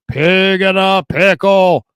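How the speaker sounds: drawn-out mock-yelled sponsor name; big stretched radio holler; mock yelling. Shown as a demonstration. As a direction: belt it out slowly to grab listeners. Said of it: "if you mock yelling, more people listen".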